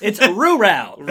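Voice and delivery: rural stretched slow and loud, drawled; drawn-out rural. Shown as a demonstration. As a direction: say rural slowly, dragging it out. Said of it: "molasses pouring out of my mouth".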